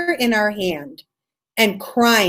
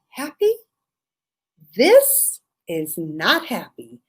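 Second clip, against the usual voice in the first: bitter retort; 3 semitones lower, slower than usual. Retold or imitated. Answering the guru bitterly.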